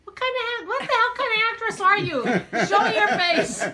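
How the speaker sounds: loud, high laughing mock outrage; laughing tease. Real, not acted. Laughing at the shy sister-in-law, loud playful outrage. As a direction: scold her through laughter.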